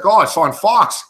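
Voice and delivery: mildly excited goalie, words drawn out; a touch of mock excitement, stretched slowly; retold excitement. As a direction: imitate someone pleased to be going on TV. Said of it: "got all excited".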